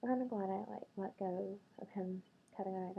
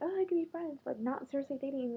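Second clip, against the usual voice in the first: a breezy guy, played for scorn; mocking the guy; 5 semitones higher than usual. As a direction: parrot his line in a higher, airy mock. Mocking the guy's reply.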